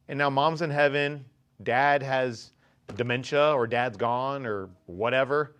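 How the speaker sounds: soft, low, wistful regret; a touch of sorrow looking back; regretful lament. Retold or imitated. Older self regretting lost family days, soft and wistful. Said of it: "look back and go".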